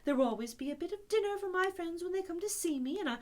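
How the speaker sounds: a lightly voiced, meek and eager Toad; humble Toad. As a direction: promise humbly, then grow chatty. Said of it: "very nicely and quite humbly".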